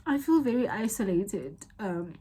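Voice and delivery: real tearful halting confession; crying. Real, not acted. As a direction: push the words out through tears, with long pauses. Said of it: "I'm crying".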